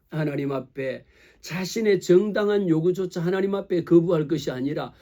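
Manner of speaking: ordinary delivery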